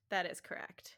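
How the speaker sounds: whispered confirmation. Shown as a demonstration. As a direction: breathe it in a whisper. Repeat is whispered.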